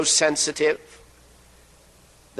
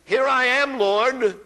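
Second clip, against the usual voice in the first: quick, higher, eager reply; eager answer; 7 semitones higher, slower than usual. Retold or imitated. Young Samuel eagerly answering the Lord's call. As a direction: answer at once, keen to obey. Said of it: "immediately he answered".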